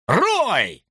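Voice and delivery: a voice calling from a distance; distant call. A narrator's reading. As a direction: shout a name across the dark. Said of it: "раздался издалека голос".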